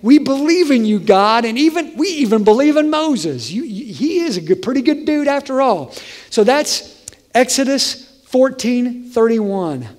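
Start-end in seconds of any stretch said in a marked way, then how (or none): 0.0-5.9 excited Israelites. Retold or imitated. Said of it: "they were like".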